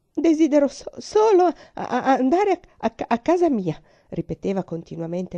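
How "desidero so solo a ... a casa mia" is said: much higher, louder, stammering plea; desperate pleading. Acted. Frightened girl begging her aunt to go home, stammering. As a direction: beg through panic, breaking on the words.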